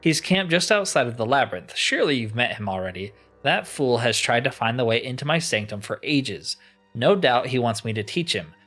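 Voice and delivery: mildly imperious, giving orders; a touch of grand impatience; lightly voiced annoyed enchanter. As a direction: play a weary master issuing a task, understated. Voices crystal enchanter in game.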